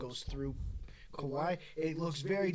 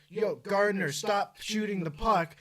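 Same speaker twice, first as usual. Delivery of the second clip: higher, slightly louder mock fan shout; half-raised yell at a player; imitating a heckler's yell; 5 semitones higher, 4 dB louder, slower than usual. Fan heckling a player at a Leafs game, mock yell. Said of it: "and I yell".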